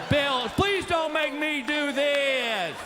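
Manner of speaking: hammed-up desperate begging; mock pleading. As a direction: beg like a cornered husband. Comic begging before embarrassing errand.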